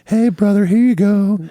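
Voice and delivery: high-pitched mock wrestler greeting; Hulk Hogan impression. Cohost echoes, handing a shirt in wrestler voice. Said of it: "A gentle Hulkamaniac".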